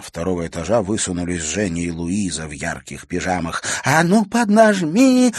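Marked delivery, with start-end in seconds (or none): 3.8-5.3 high, loud and slow stage whisper; whisper-shout. Acted. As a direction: urge her on loudly. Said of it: "шёпотом закричали они".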